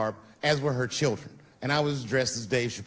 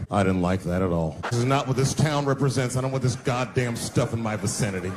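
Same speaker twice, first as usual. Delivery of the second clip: earnest white bystander; 5 semitones lower than usual. Retold or imitated.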